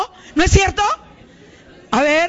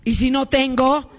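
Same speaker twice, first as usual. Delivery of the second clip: full preaching. Acted. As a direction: preach it, stretching every sí se puede. Clímax de la prédica, sí se puede. (predicación enfática y lenta)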